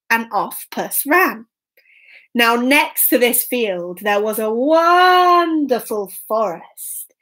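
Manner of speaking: lilting, emphatic storyteller; children's story narration. A narrator's reading. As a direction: savour the key words for young listeners.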